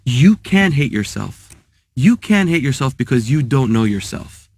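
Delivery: slow, deliberate words said straight to him; the rabbi finally answering the student with slow conviction; earnest rebbe. Retold or imitated. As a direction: lay it down gently but firmly. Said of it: "looked at him in the eye and says".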